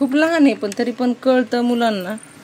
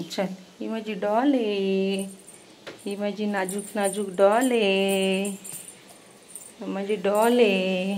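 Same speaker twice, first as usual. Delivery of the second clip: slow doting coo; slower than usual. Real, not acted. Cooing to baby about doll.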